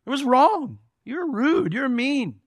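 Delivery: name the hurt plainly and firmly, voice lifted; stern confronting rebuke. Retold or imitated. Pastor voicing what he tells people who hurt him, a firm rebuke. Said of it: "I go to people all the time and I say".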